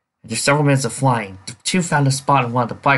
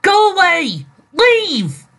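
much higher, louder imitation of the eerie voice; imitating the ghost voice; 7 dB louder, much slower than usual. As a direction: echo the ghostly warning. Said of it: "I just heard".

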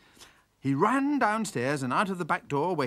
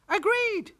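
very high, loud squawked agreement; jay squawk; 5 dB louder than usual. Acted. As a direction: screech it brightly.

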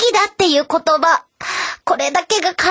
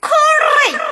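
rolled r; 12 semitones higher, much faster than usual. Shown as a demonstration. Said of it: "やってください".

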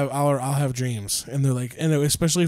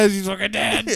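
higher, said through laughter; laughing echo; 6 semitones higher than usual. Real, not acted. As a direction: repeat it cracking up. Echoing with laughter.

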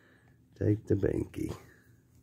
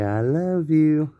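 put-on higher, slow and sing-song for baby to copy; coaxing demo; 4 semitones higher, 3 dB louder, slower than usual. Shown as a demonstration. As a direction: model the words gently for the baby.

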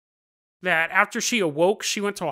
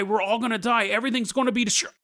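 higher mock doom cry, last line rushed fast; doom screaming; 5 semitones higher, faster than usual. The statue girl screaming that the world will burn, mock doom cry. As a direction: proclaim the end of the world, hammed-up. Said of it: "She would scream".

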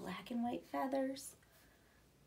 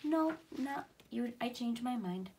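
calm reply. Acted. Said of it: "But he calmly responds".

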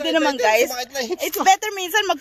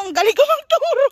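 louder, mock-proud boast; playful brag; 6 semitones higher, 5 dB louder than usual. Real, not acted. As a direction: brag jokingly about teaching. Playful brag while teaching. (pabirong pagmamayabang)

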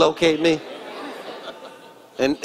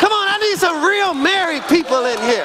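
preacher shouting to the married people; shouted call; 12 semitones higher than usual. Real, not acted. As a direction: belt it out to rouse the room. Preacher repeats the call, stronger.

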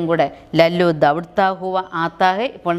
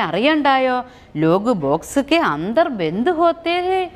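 coaxing big brother; 4 semitones higher than usual. Acted. Gopu comforts crying Chunni.

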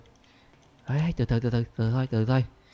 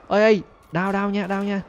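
higher playful "đau nha" cries; mock-pained whining; 7 semitones higher, 4 dB louder, slower than usual. Real, not acted. Under fire, playful high pained whining. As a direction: whine at every hit. Hit in game.

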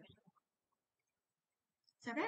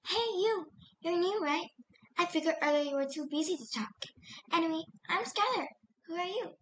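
Skylar voice; 4 semitones higher than usual. Shown as a demonstration. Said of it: "Skylar take".

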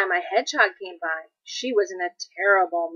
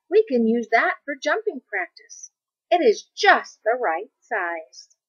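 eager hare; 4 semitones higher, 5 dB louder than usual. Acted. Hare eyeing the small tree.

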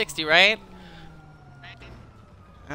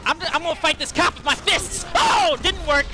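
excited game yell; 6 semitones higher than usual. Real, not acted. Fist fight with a cop.

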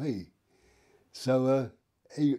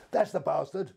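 raised-pitch imitation of an irate woman; mock outraged accusation; 4 semitones higher than usual. Woman spots him at the police station, imitated high indignation. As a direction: point the culprit out, indignantly. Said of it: "she went absolutely apeshit".

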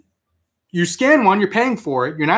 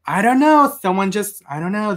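lightly voiced manager, pitched higher; flustered manager; 5 semitones higher than usual. Manager explaining the early stock to a customer, mildly flustered imitation. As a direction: imitate a manager making excuses, voice raised a little. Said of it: "She goes".

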